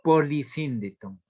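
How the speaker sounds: "polisíndeton" spelled out slowly, syllable by syllable; slow dictation. Shown as a demonstration.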